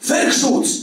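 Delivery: high-pitched call from the door; warning cry. A narrator's reading. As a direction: cry out the alarm, pitch jumping up. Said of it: "krzyknął ktoś od drzwi". (okrzyk ostrzegawczy)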